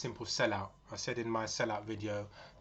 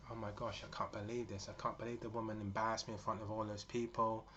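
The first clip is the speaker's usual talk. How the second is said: upset; 5 dB quieter than usual. Retold or imitated. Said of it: "she starts crying".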